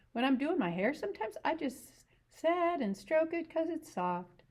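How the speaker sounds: lightly voiced ranch wife, teasing; Curly's wife. To Lenny about rabbits, lightly voiced curious woman.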